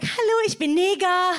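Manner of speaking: mock-cheery self-introduction; child introducing herself. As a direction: announce your name like a new pupil. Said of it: "Stell mich vor und sag".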